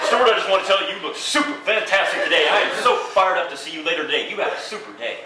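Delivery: upbeat message. Pretend. Message left on your own phone.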